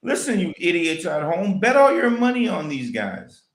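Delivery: lightly voiced game commentator; mock commentator voice. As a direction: imitate a TV commentator hyping recruits, drawn out at first. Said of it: "do that voice again".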